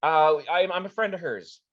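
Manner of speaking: high, loud frantic pleading; horrified begging. Acted. Annie begging the players to save him, horrified. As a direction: beg for mercy. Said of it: "all of a sudden horrified".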